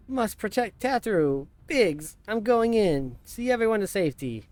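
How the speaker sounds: loud, high, rallying cry; heroic shout. Acted. Player voicing Wedge rushing in to protect Tataru, loud and heroic. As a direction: charge in and yell it bravely.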